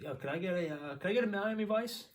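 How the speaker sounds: a hint of a breezy customer ordering; lightly voiced customer.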